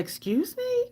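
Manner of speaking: high, questioning retort; a rising, incredulous query; taken aback. Retold or imitated. Recruit learning of a possible call-back, taken aback.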